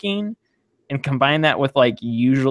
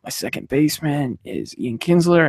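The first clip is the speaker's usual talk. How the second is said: boring person. Retold or imitated. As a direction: plod through it as a dull bore. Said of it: "a really boring person who just talks".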